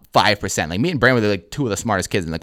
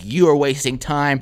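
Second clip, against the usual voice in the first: emphatic, slightly raised mock teacher scolding; lecturing teacher; 5 semitones higher than usual. Teacher scolding a student face to face, emphatic. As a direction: lay into the student point by point. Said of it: "putting her fingers, like, in my face".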